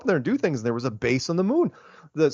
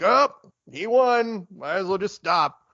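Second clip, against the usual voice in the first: lightly acted quitter, slow and higher at first; mock giving up; 5 semitones higher, slower than usual. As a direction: concede the race in mock surprise, easing down. Acts out runners quitting the race.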